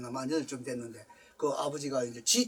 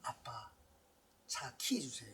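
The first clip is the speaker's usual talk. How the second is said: put-on child asking; 6 semitones lower, 16 dB quieter, slower than usual. Son asking father for car keys.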